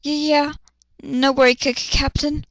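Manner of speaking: a hint of flustered stammer; blushing stammer. Luna blushing at her captain, light stammer. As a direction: stammer shyly. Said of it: "She blushed and spoke".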